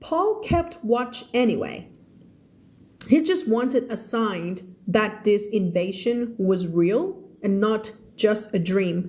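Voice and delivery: slow, careful story reading for learners; measured teacher's narration; slow read-aloud. Acted. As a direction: read the story word by word, clearly.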